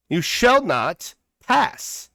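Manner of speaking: slow, booming mock wizard line; movie wizard quote. Commentator quoting a film wizard at the politician, slow and mock-grand. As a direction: intone it like a wizard blocking the bridge.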